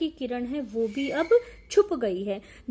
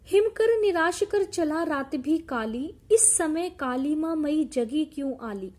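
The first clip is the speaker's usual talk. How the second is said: raised, sing-song reciting of verse; poem recitation. Acted. Teacher reciting the poem to the class, in recitation voice. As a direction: declaim the lines to the class.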